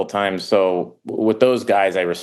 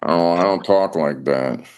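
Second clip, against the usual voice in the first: Ted Levine. Retold or imitated. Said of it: "Levine was like".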